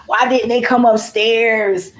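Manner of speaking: mild mock wail, drawn out slowly; retold crying. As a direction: re-enact a tearful lament, stretched out. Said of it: "I'm in the bathroom crying".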